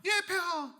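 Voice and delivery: high, loud "yes, Majesty" voice; obedient subject. Acted. Woman obeying her king, high and submissive.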